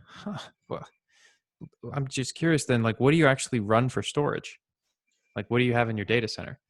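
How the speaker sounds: mildly baffled, curious follow-up question; puzzled huh, then ask as if genuinely curious. Retold or imitated. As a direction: act a touch thrown by the brush-off. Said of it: "I would be baffled".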